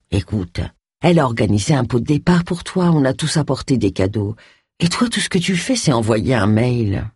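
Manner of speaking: a hint of a disappointed friend, slowing at the end; reproachful Phil.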